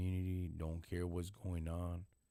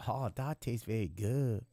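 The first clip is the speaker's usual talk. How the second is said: imitating inmate; 4 semitones higher than usual. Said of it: "That's what he said".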